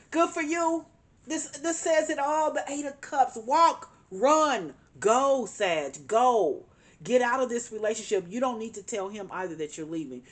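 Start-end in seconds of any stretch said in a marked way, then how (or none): 0.1-8.7 high, loud burst of urging, calling out each word; excited urging. Real, not acted. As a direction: cheer her out the door with sudden excitement. Card confirms leaving, urging her.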